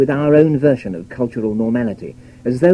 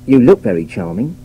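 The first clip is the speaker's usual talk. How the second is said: sceptical; 5 dB louder than usual. Shown as a demonstration. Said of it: "A sceptical Southerner might interpret the words as".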